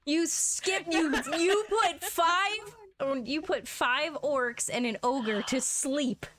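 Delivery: slow, amused laughing disbelief. Real, not acted. GM laughing at players' speedrun.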